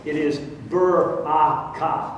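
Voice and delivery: "baraka" slow, three syllables, rolled r; careful Hebrew "baraka" with a rolled r; Hebrew pronunciation. Shown as a demonstration. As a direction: say "baraka" as ba-ra-ka, stress the middle. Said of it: "the word blessing here in Hebrew".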